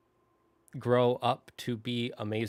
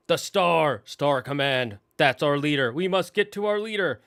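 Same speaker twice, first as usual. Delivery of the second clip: put-on raised, louder, eager kid voices; excited kids; 3 semitones higher, 5 dB louder than usual. Kids spotting their leader's picture, eager and louder.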